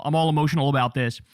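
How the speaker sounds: excited restatement of the feeling; emotional repeat. Real, not acted. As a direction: rush it out, worked up.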